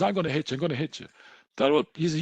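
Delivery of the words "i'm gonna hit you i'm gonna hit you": a raised, mildly acted threat thrown back; mock aggressive comeback. Homeless man answers the threat, mildly aggressive. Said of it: "started getting aggressive back and says".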